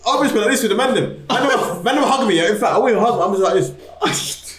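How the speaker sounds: high laughing mock celebration.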